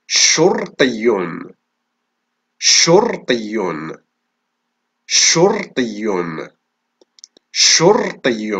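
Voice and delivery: شرطي stretched slowly, each syllable clear; slow syllable-by-syllable dictation. Shown as a demonstration. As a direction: drag out شرطي slowly for the class. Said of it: "إذن حرف الشين في أول الكلمة".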